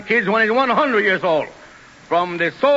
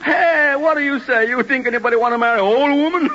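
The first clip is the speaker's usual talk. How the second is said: indignant; 6 semitones higher, 3 dB louder than usual. Acted. Tony indignant at priest.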